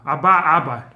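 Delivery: "Abba, Abba" with loud, spaced-out beats; alternative stress pattern. Shown as a demonstration. Teacher offering the other stress pattern, stress demo. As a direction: beat out "Abba, Abba" as a rhythm. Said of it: "where the stress is, it's kind of spread apart".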